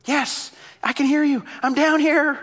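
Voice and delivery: high, loud hopeful call; calling up from below. Acted. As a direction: shout so someone far above hears. Jack calls up from cliff.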